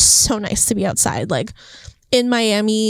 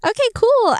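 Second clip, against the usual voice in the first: excited okay; 13 semitones higher than usual. Retold or imitated. Excited reply to God.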